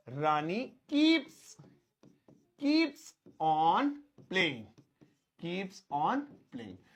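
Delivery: words spaced out slowly; slow dictation. Shown as a demonstration. Teacher dictating the answer slowly to students. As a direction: spell it out word by word. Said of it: "तो कैसे लिखेंगे रानी खेलती रहती है?".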